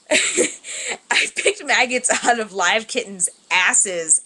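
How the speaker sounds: slow, drawn-out imitation of the coworker; a slow put-on voice for the coworker; mock coworker voice. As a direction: spell out the gross detail slowly, mimicking him. Quoting Jerry's gross story again.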